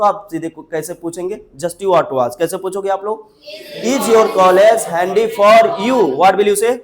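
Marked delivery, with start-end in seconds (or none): 3.8-6.1 slow, drawn-out classroom model; slow model sentence. Shown as a demonstration. Teacher asks students about their college, slow model sentence. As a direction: spell it out slowly for learners.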